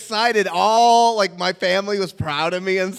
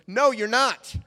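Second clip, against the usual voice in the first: higher, indignant retort; mock scolding; 6 semitones higher, slower than usual. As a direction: contradict him as the fed-up casting director. Casting man contradicts him angrily.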